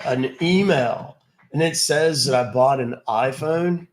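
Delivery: loud, slow surfer dude drawl; lazy beach bro, stretched out. Pretend. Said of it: "That's why I don't do the surfer voice".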